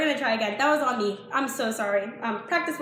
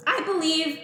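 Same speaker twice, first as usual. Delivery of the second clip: voice crack; 2 semitones higher than usual. Real, not acted. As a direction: voice cracking on "I believe". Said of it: "voice crack".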